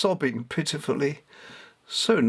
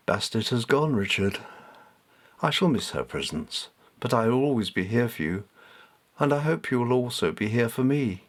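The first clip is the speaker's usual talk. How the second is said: gentle, lower voice of a kindly cat; a lightly lowered, tender cat voice; softer, deeper cat. Acted. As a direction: speak softly and a little deep, like a wise cat. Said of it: "this was softer and deeper".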